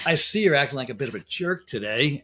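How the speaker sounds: mock blunt accusation. Shown as a demonstration. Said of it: "They're never wrong".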